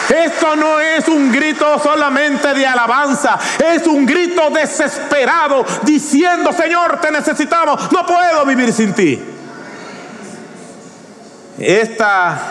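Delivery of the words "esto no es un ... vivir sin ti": high, fast, crying-out sermon; impassioned preaching. Real, not acted. Preacher urging the church to cry hosanna, impassioned. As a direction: pour it out like a desperate prayer.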